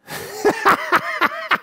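a sudden squeaky laugh; real amused laugh at a harsh comment; high burst of laughter. Real, not acted.

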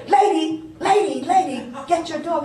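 high, loud frightened begging; panicked plea. Retold or imitated. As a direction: plead in a rush to call the dog off. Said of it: "And the guy said".

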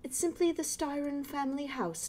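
a hint of a proper British neighbor; posh British. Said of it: "like, a posh British voice".

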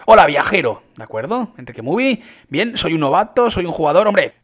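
normal talking voice

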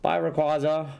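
cheering character. Acted. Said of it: "So he's like".

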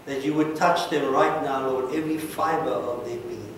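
earnest pastoral prayer, swelling then settling; fervent prayer. Acted. Pastor praying over the people at the altar, fervent. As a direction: pray over them with rising fervour.

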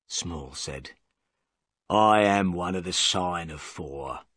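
a lightly voiced low, bitter prisoner; defiant prisoner. Prisoner confesses to Holmes, lightly voiced low and defiant.

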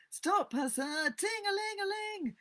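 play-acted steamboat commands; boy playing steamboat captain. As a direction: call out orders, then trill the bell up high. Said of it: "giving the orders and executing them".

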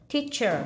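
"Teacher" drawn out, ending in an "ờ" sound; ending as schwa. Shown as a demonstration. Teacher models "Teacher" for the class, "er" as "ờ". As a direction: say "Teacher" slowly with "er" as "ờ". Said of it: "đọc là ờ luôn".

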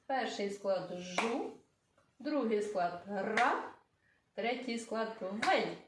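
slow counting of syllables; teacher naming the syllables slowly; slow and deliberate. Shown as a demonstration. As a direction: spell out each syllable slowly. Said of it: "Три склади".

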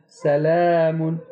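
सलामुन slow, the aa thin and light; fine alif. Shown as a demonstration. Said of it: "इसको बारीक पढ़ रहे हैं". (बारीक अलिफ से सलामुन)

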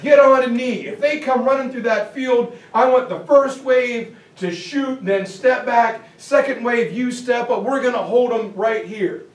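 a general setting the line, firm and loud; barking orders. Retold or imitated. Lee ordering his men into position, commanding. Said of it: "And Lee's like".

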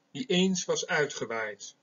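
slow, lingering close of the poetic line; slow verse reading with weight on eens; poem recitation. Shown as a demonstration. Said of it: "Eén zo'n gedicht wil ik hier voorlezen".

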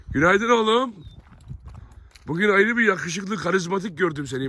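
a proud owner cooing up at his dog; fond pet greeting. Real, not acted. Greeting the dog Faysal fondly.

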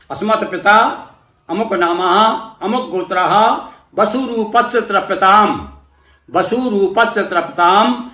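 slow ritual chant for the listener to repeat; mantra recitation. Shown as a demonstration. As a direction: intone it like a priest leading the offering. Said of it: "जब मैं बोलूँगा तो उस प्रकार से आप करिए".

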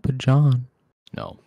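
high-pitched woman voice. Pretend. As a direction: play a distressed woman calling out. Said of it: "I need to work on my woman voice".

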